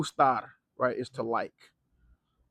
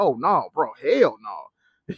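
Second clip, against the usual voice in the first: retold emphatic denial; 2 semitones lower, 6 dB louder, much slower than usual. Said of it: "I was like".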